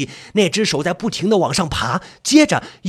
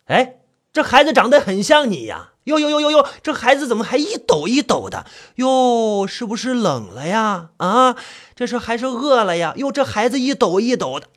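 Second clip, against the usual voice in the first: raised mock concern; taunting coo; 3 semitones higher than usual. Fifth brother baiting the ghost with her child, taunting. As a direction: tease with exaggerated fussing.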